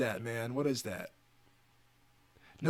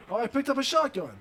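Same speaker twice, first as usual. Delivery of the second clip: excited; 10 semitones higher, 7 dB louder, faster than usual. Real, not acted. Excited find in game.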